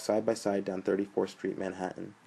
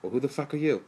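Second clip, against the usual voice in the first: put-on higher-pitched New York accent; 6 semitones higher than usual. A narrator's reading. Joe ribbing his roommate, in a New York accent. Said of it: "Joe asked in a New York accent".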